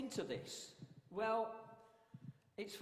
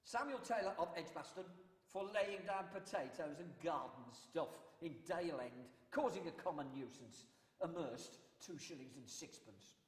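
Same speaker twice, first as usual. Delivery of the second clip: town crier. Shown as a demonstration. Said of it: "That was a court announcement".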